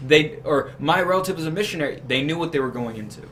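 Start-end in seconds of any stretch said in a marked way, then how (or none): 0.8-2.0 lightly voiced worried relative, higher and quicker; a hint of a pleading family member; mock worried relative. Voicing worried relatives in complaint.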